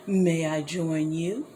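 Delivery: low, slow, friendly wolf voice. A narrator's reading. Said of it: "in a friendly voice".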